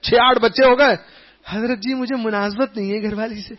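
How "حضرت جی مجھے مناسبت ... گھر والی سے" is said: mock complaining husband. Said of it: "پندرہ سال گزر گئے".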